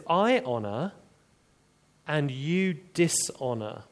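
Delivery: two halves weighed against each other; contrastive stress. Shown as a demonstration. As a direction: stress "I" against "you", with a pause between. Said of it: "the contrast".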